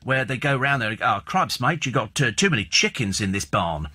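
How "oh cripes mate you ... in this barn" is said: put-on Australian accent. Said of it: "they're funny little accents".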